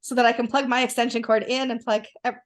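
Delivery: talking through hiccups; words broken by hiccups. Real, not acted. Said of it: "I've got the hiccups".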